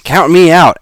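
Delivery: high, loud snapped refusal. Acted. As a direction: bark out a flat no. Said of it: "Alex snapped".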